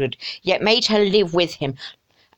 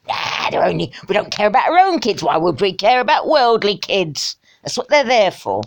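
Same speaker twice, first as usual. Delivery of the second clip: sarcastic mock voice. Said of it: "voicing the organisation".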